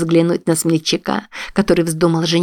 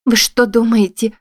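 slight tremble; 5 semitones higher than usual. A narrator's reading. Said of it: "Голос Эштон едва заметно дрогнул".

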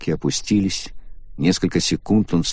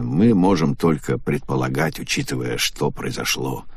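pained; 4 semitones lower than usual. Acted. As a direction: say it with a wince. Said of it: "страдальчески скривился".

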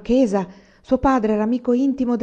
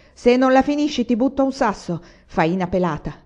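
high, loud threat; irritated shout; 5 semitones higher, 5 dB louder than usual. A narrator's reading. Old carpenter threatening the insolent farmer, irritated shout. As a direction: shout it crossly, as a warning. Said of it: "si irritò e gridò".

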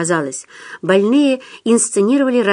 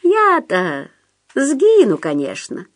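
high plaintive whine, dropping off; self-pitying, high-voiced reply; pitiful; 6 semitones higher, slower than usual. A narrator's reading. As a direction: whine it pitifully, then sink. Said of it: "стал вдруг жалостливым".

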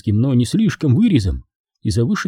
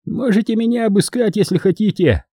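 drawled; 10 semitones higher than usual. Acted. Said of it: "протянул он".

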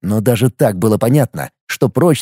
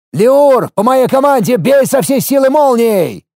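shout; 11 semitones higher than usual. A narrator's reading. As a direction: shout across the tunnel to the mage. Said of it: "кричу я".

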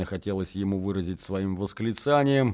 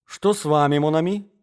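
higher, lilting friendly question; friendly concern; 6 semitones higher, 5 dB louder than usual. Acted. Scheming mother approaches the angry young man, friendly. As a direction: greet an upset friend in a raised, questioning lilt. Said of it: "дружески протягивая ему свою руку".

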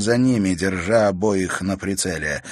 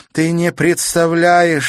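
furious; 9 semitones higher, 6 dB louder, slower than usual. A narrator's reading. Countess furious at the broken key.

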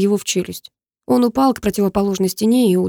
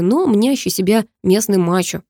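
usual speaking voice

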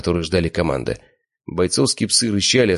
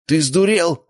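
high, loud shout of disbelief; angry shout; 11 semitones higher, 3 dB louder, slower than usual. A narrator's reading. Slavik grabbing his brother's collar, angry shout. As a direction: snap it in alarm. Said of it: "закричал Славик".

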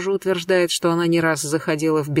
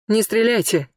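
frightened cry; 5 semitones higher than usual. Acted. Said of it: "выкрикнул мужчина дрожащим голосом".

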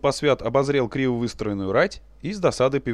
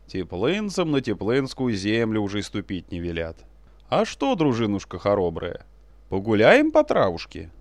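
low rumbling, mildly reproachful prince; gentle reproach; 3 semitones lower than usual. Acted. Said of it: "пророкотал с мягкой укоризной в голосе".

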